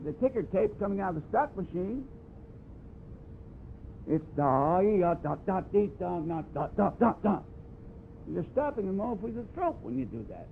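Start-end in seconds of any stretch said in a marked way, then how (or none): 4.1-7.4 smooth even syllables. Shown as a demonstration. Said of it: "That's what I mean by even blowing".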